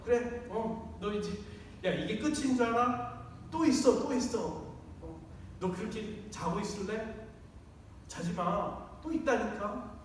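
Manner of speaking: a sarcastic God taunting Abraham; mocking sneer. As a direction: needle him sarcastically. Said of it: "이렇게 비아냥거리면".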